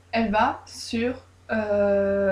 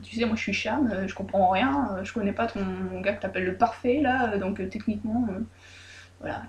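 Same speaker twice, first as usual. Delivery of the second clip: confused mumbling; 2 semitones lower, 5 dB quieter than usual. Retold or imitated. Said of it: "elle fait".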